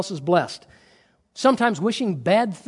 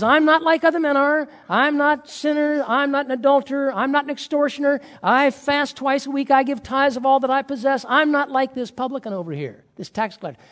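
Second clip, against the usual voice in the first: lightly acted boastful list, pitched up; a hint of a self-righteous man, voice raised in pitch; self-righteous Pharisee; 5 semitones higher than usual. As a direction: recite your virtues with smug certainty. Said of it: "the Pharisee says, thus with himself".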